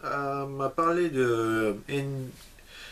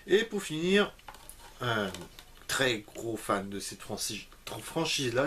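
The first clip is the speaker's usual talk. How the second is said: lisp; slower than usual. Real, not acted. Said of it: "un cheveu sur la langue, je reviens du dentiste".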